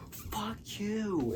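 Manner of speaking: high breathy whispered insult; whispered curse. Retold or imitated. Daughter cursing her dad, in a high whisper. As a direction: hiss it under your breath.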